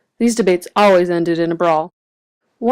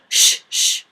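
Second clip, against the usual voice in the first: whispered pleading shush; hushing. A narrator's reading. Grump begging the others to hush outside the bakery, whispered. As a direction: beg them to hush. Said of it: "begged Grump".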